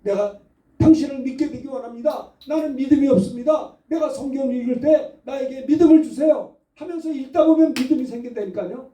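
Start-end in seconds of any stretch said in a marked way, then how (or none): none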